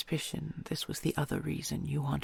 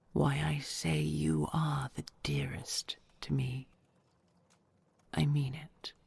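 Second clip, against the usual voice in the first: hushed, intimate whisper to a loved one; tender whisper. Acted. Dragon whispering vows to her treasure.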